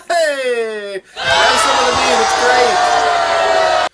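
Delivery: loud hearty shout; rowdy tavern shout. Acted. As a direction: bellow it across the tavern. Bar shout to the crowd.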